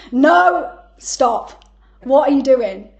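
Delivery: loud, high embarrassed protest; laughing, imitating her own mortified protest; retold loud scolding, half laughing; mock mortified shout.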